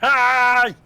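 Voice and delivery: squeaky high greeting; silly high voice. Acted. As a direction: pitch way up for a goofy hello. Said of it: "I promise that's not my actual voice".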